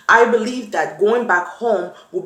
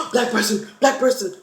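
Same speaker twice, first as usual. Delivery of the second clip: gasping surprise; 2 semitones higher than usual. Retold or imitated. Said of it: "I'm like".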